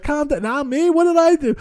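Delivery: high-pitched protest, what did I do; mock innocent plea. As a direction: play the bewildered innocent, voice jumping up high. Comic mock innocence to heckler.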